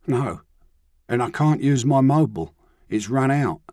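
put-on boy stranded in the Underground; downcast runaway boy. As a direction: admit he's got nothing. Ryan saying he has no money.

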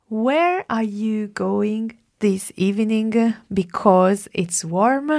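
slow dictation. Shown as a demonstration. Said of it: "la prima frase".

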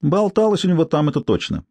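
lightly voiced brassy street woman; feral wasteland raider. Tsypka shrugging.

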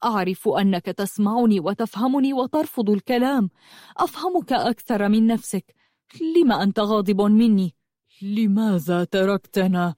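earnest, mildly pleading reproach; very serious. Acted. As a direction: press your silent friend in earnest. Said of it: "وقال بجدية شديدة".

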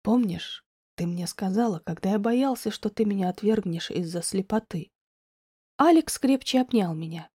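a loving man calmly comforts Diana; gentle Alex. A narrator's reading. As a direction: reassure her quietly. Alex voiced softer and lower.

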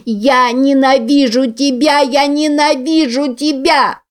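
put-on high, slow, shrieking child's voice; a furious little girl screaming at her mother; screaming hate. A narrator's reading. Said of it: "вопила она".

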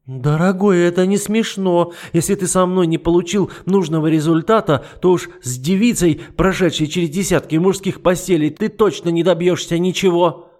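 shrill scorn; scolding duchess. Acted. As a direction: berate him like a fool. Matilda argues.

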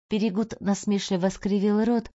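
ordinary delivery, nothing marked

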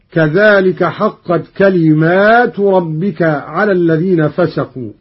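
كلمات with a long alif, kalimaat; Qalun reading. Shown as a demonstration. Teacher demonstrating the plural كلمات, recited. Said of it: "بألف بعد الميم على الجمع هكذا".

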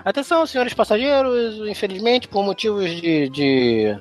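lightly voiced flight announcement; mock pilot announcement over the speaker; over the intercom. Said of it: "a mulher fala".

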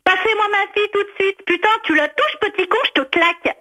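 angry. Real, not acted. Mother furious at prank caller.

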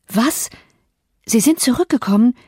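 can hardly believe he's back; astonished questions; disbelieving surprise. A narrator's reading. Nelly shocked at return.

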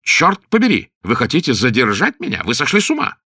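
резко выше и громче, возмущённо; выкрикнуть в ярости на капитана; гневный крик. A narrator's reading. Лорд возмущён, кричит. (лорд кричит на капитана в ярости)

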